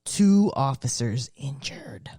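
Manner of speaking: slow, dramatic headline read; news anchor voice. Acted. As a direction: announce it like breaking news.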